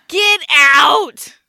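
very loud, drawn-out shout of disbelief; outraged exclamation. Real, not acted. Mock-outraged reaction to sixty-five.

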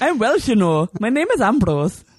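a failed attempt at a Welsh accent; bad Welsh accent. Co-host asked to do Welsh for Ambrose, a bad Welsh accent. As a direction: try a Welsh accent and miss it. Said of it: "No, that's not Welsh".

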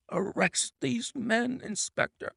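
slow, high, strained gasp; exhausted, breathless command, fading at the end; gasped order. A narrator's reading. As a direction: force it out short of breath. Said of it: "he gasped".

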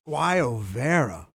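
slow, savoured Spanish-style Guayavera; Spanish accent. Pretend. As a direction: roll out Guayavera slowly like a Spaniard. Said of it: "You're like the Antonio Banderas".

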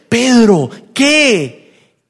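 loud, high call and retort; exasperated shouting. Acted. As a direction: yell it out, fed up. Insistent call, exasperated answer. (gritos agudos de exasperación)

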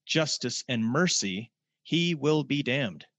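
formal quote reading. Acted. Preacher quoting Joseph Smith to the congregation, slow and formal. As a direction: read the prophet's words with weight.

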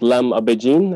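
lam abajin as the Arabic source words; Arabic origin form. Shown as a demonstration. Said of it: "actually comes from Arabic".

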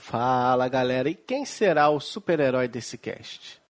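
talking through a head cold; blocked nose, slow show intro; stuffy nose. Real, not acted. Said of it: "desculpa que eu tô meio gripado".

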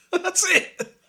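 high, loud laughing outburst. Real, not acted. Hearing the friend's recited poem, laughing. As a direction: burst out laughing through the words.

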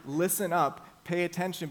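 Behold called out loud; loud, commanding Behold; calling out. Shown as a demonstration. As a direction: ring out Behold like a summons. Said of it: "the author is trying to say".

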